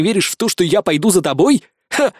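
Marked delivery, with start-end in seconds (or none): 1.9-2.1 a single spiteful "ha"; spiteful short laugh. Acted. Hero scoffs at the alien controller, spiteful laugh. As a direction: scoff at her nastily. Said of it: "Злобно усмехнулся я".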